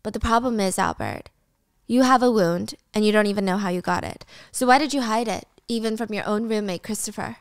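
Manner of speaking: measured, even reasoning; trying to be calm. Acted. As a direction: keep it calm and controlled while questioning. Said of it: "Wendy's trying to be calm".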